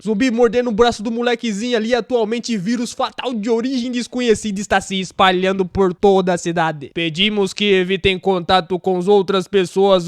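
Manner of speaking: measured, emphatic newscaster announcement; formal anchor delivering a grave warning; news emergency broadcast. Acted. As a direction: read it out like an urgent TV alert. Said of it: "o jornalismo tava dizendo a todo mundo".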